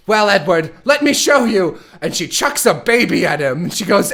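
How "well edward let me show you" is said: mock villain. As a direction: ham up a silly villainess. Villain Dante about to attack.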